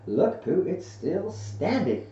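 high little-creature voice; excited Piglet. A narrator's reading. Piglet shows Pooh the house, high and excited. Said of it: "said Piglet".

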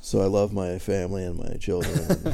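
low, ordinary offstage voice; Gilbert Gottfried. Retold or imitated. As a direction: drop the persona and say it low and normal. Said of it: "when he's off stage".

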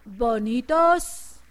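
drawn-out slow hint; slow prompting. Shown as a demonstration. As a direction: stretch the word bonitos slowly. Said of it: "A ver, díganme".

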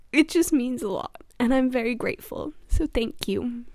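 choked-up, grateful thanks; tearful gratitude, kept in check; holding back tears. Real, not acted. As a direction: say thanks while close to real tears. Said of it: "so I don't start crying".

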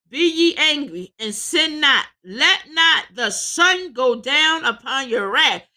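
declaimed verse with drawn-out emphasis; scripture preaching. Real, not acted. Preacher reading the verse to the congregation, emphatic declaiming. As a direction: proclaim the scripture slowly and firmly.

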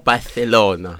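"Barcelona" with the c lisped like th, Barthelona; Catalan lisp. Pretend. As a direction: say "Barcelona" the Castilian way with a th. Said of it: "the Catalan lisp".

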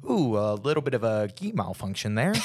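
mock-nonchalant commentator remark; playfully imitating an unbothered announcer; imitated nonchalance. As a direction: toss it off like a casual on-air observation. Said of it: "you just, like, nonchalant".

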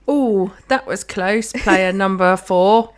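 slow, half-hearted cheering; drawn-out, clueless encouragement for the team; mock cheerleader. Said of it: "I'm the best cheerleader".

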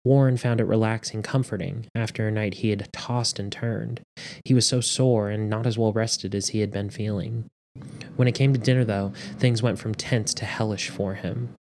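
measured audiobook narration; story narration. A narrator's reading. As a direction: read the story aloud with steady drama. Reads story aloud.

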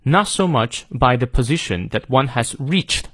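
"reached" with its long ee fully held; slow model reading, full long vowel in "reached". Shown as a demonstration. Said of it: "长音reach念到位". (慢读，把"reached"的长音念到位)

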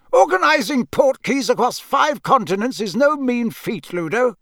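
high, officious, pointed; dry Mister Crouch. A narrator's reading. Overworked official explaining his workload to colleague, dry. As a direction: make the point dryly. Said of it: "said Mister Crouch dryly".

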